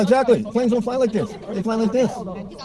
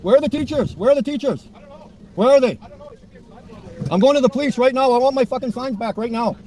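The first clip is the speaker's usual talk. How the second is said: raised, indignant yelling; angry shouting; 5 semitones higher than usual. Real, not acted. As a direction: shout it, fed up and furious. Angry man shouting after kids.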